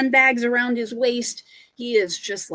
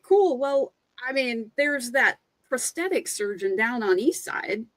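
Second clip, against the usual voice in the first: breezy runner; 3 semitones higher than usual. Acted. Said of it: "the other runner is like".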